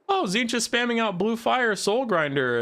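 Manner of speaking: mock excitement. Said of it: "sarcastic hype about the stale meta".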